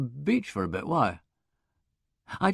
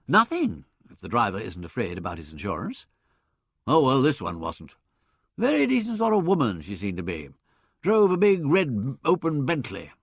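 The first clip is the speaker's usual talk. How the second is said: ordinary delivery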